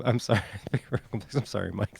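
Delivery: laughing apology; can't quite hold the laugh in; amused apology. Real, not acted. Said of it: "That was just funny".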